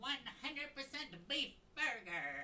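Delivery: very high, squeaky put-on character voice. Performing a requested line for chat as a Winnie impression. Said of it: "Yes, Winnie impression".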